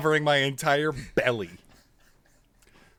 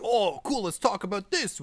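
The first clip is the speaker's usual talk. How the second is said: mock excited fan; 9 semitones higher than usual. Imagined fan reaction.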